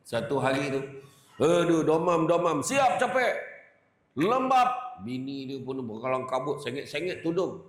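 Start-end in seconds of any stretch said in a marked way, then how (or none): 1.4-4.8 louder, hammed-up feverish moaning; husband hamming up his fever; mock sick groan.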